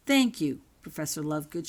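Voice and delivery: a grateful call while leaving; light shouted thanks; mild shout. Acted. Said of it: "she shouted as she left".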